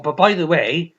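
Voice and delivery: lightly voiced eager pill-pusher; imitating the psychologist. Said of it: "Or, or".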